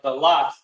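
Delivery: "dalat" as duh-LAHT; pronounced "dalat". Shown as a demonstration. Teacher gives the word to repeat, sounding out "dalat". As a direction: model "dalat" with an open second syllable. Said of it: "It's pronounced".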